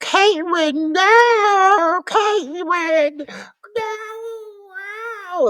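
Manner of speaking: put-on very high, very slow, squeaky, shrill lisping child voice. Imitating how the child in the movie talks: squeaky, shrill kid voice with a lisp. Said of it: "his voice is just, like, very, like, squeaky and shrill".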